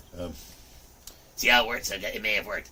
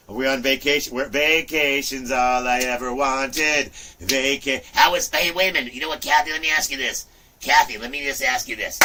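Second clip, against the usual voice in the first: louder, higher eager teasing; excited teasing; 4 semitones higher, 5 dB louder than usual. Real, not acted. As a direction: pester her playfully. Excited questioning of Kathy.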